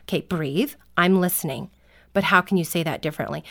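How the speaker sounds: soft, low, steady reassurance; calming a child. Acted. Parent to a worked-up child who needs to breathe, calm and soft. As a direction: settle them gently, then prompt. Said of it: "sometimes they're really worked up".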